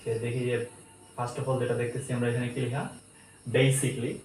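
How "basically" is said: "basically" in three syllables, BAY-sik-lee; "basically" with a long ei and -klee ending; correct pronunciation. Shown as a demonstration. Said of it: "এটা মিস্টেকলি আমরা ভুল করি".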